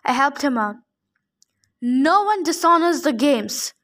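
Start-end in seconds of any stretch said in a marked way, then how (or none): 1.8-3.7 bellowed. Acted. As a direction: boom it over the arena. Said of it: "Antaeus bellowed".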